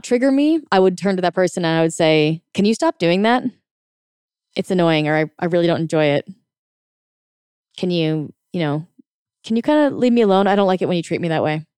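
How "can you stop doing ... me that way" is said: calm, no charge. Shown as a demonstration. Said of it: "You see how there's no energy?".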